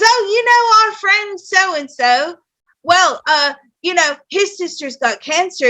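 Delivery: imitated British mother passing on gossip; high, chatty British voice; British mom. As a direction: mimic a British mum's casual news. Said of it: "'cause my mom's British".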